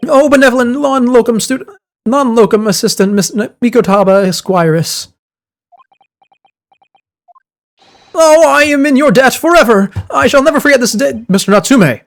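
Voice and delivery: high, overjoyed gushing; gushing client voice. Acted. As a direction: pour out thanks, way up high. Client gushing thanks in character.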